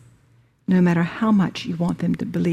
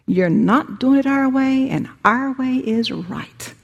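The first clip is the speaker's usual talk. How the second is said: rulers howling; 5 semitones higher than usual. Acted. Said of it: "The rulers of the people howled".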